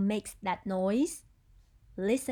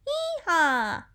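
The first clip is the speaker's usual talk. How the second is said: donkey braying; 5 semitones higher, 5 dB louder than usual. Shown as a demonstration. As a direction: bray like a donkey. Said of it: "It's a donkey".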